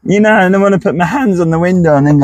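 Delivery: lightly put-on northern voice; a touch of mock northern accent. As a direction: slip playfully into northern. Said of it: "don't know why I went northern".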